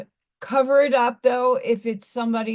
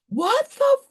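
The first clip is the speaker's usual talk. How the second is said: high, slow, shocked mother's voice; a mom catching her kid's tattoo, much higher and drawn out; mother spotting the tattoo, high and appalled; 12 semitones higher, slower than usual. Retold or imitated. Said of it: "and goes".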